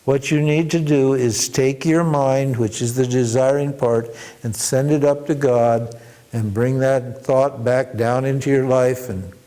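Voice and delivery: slow, weighty sermon delivery; preaching the moral. Real, not acted. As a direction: drive the lesson home slowly. Teacher draws the moral.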